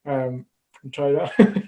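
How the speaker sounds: laughing through a gum shield; wearing a mouthguard. Real, not acted. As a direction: speak around a mouthguard. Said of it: "I'm putting my gum shield in right now".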